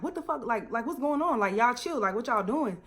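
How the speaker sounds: breaking it up in disbelief; lightly voiced shocked bystander. Bystander sailor telling the two to chill, startled. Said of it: "she's like".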